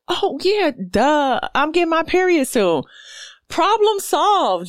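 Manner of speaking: high, bright mock aha; mock realization. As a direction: play the dawning duh moment. Acted realization quote.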